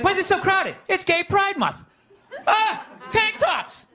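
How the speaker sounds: high, laughing bewildered voice; laughing mock disbelief. Acted confused self, laughing.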